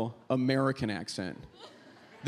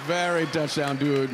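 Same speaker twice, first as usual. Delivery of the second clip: eager foreign exchange student English; halting, chirpy non-native accent; 3 semitones higher than usual. Acted. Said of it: "what accent I'm doing".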